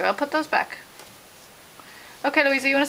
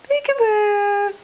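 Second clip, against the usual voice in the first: slow peekaboo; 5 semitones higher, much slower than usual. Pretend. Peekaboo game with baby.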